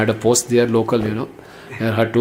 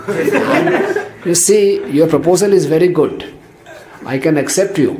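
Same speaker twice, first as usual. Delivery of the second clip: laughing teasing; 4 semitones higher than usual. Retold or imitated. Lakshman teasing Surpanakha.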